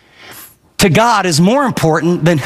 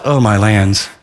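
low, sinking mock dismay; a touch of hammed-up dread; dismayed oh my lands; 10 semitones lower, slower than usual. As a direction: groan it out as you spot them. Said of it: "and you just realize".

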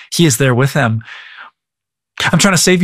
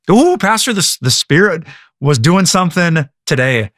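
gushing churchgoer; 3 semitones higher than usual. Retold or imitated. Churchgoer praising the pastor after service, mock gushing. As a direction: lightly parody an awed worshipper.

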